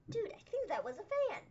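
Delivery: like you just clocked something unreal; retold disbelief. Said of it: "And I'm like".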